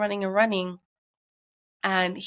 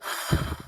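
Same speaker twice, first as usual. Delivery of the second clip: real sigh to regain composure; tearful sigh. Real, not acted. Mother pausing before the hard part, tearful sigh. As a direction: breathe out to keep from crying. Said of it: "I'm gonna cry".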